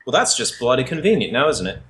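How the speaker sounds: drawled Aussie line, dry and wry; Australian accent. Acted. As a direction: lay on the Australian twang. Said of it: "What part of Australia is Avalon from?".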